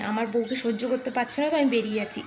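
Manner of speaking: quoted in Bengali. Retold or imitated. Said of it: "क्या बोलते हैं बंगाली में".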